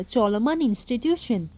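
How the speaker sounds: slow, drawn-out mocking echo of চলমান ইনস্টিটিউশন; a mild sneering parody of চলমান ইনস্টিটিউশন; mocking imitation. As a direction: stretch out চলমান ইনস্টিটিউশন slowly, as if making fun of it. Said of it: "এইভাবে বলতো".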